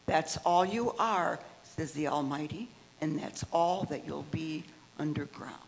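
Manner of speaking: steady, deliberate poetry recital; poem reading. Acted. Member reading a poem to the group, deliberate recital. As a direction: give each line its own weight, like reading at an open mic. Reads Fenton poem aloud.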